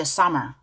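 "Summer" with an R-coloured ending; ER sound pronounced. Shown as a demonstration. Teacher repeats the word for learners, R pronounced. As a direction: let "Summer" end on an English R. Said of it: "이알 발음 가죠".

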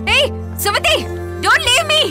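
desperate yelling. Acted. Parent yelling at a daughter who walks off while everyone watches, frantic. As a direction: shout after her, begging and scolding at once.

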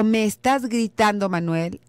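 rising complaint on "estás gritando"; with emotion. Shown as a demonstration. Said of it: "es con emoción".

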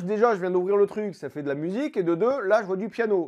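ordinary delivery

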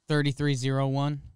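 a hint of a robot-human nerd. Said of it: "Good nerd voice or whatever voice that was".

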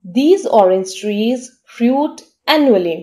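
slow, careful dictation pace; teacher reading an example sentence very slowly. Shown as a demonstration. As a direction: read it out slowly for learners to follow. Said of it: "इसको sentence में use करके देखते हैं".

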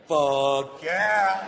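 sung, hyped-up high cheer; excited yes. Shown as a demonstration. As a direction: belt it out with joy. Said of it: "let's try it one time".

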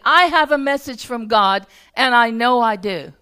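mildly insistent retold declaration; earnest messenger. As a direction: imitate an earnest, certain messenger. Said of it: "this is how he said it".

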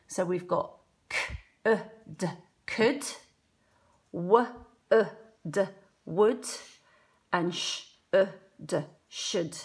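could, would, should broken into single sounds; teacher segmenting words for pupils; sounding out. Shown as a demonstration. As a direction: segment each sound with pauses. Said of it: "there's a l".

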